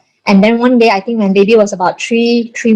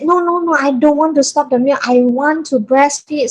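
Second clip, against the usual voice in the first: higher-pitched, emphatic retold protest; insistent refusal; 5 semitones higher than usual. New mother refusing to stop her milk, insistent. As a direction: replay a stubborn no, drawing out the last words.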